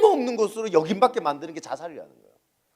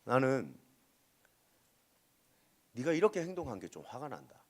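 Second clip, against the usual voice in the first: softer, calm statement of feeling; calm explanation; 7 semitones lower, 13 dB quieter than usual. Shown as a demonstration. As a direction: explain the anger gently, no blame. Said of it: "이 감정을 이렇게 표현해 볼까요?".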